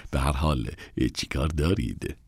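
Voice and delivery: quiet fall on دارید; subdued question. Acted. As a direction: let it drop flat and quiet. Same question said again.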